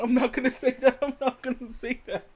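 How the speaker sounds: high, drawn-out disclaimer; teasing denial. Real, not acted. Comic disowning a joke just told, drawn-out denial.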